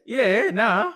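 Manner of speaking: mock Australian bogan accent. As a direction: imitate a bogan's drawn vowels. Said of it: "it's still kind of bogan".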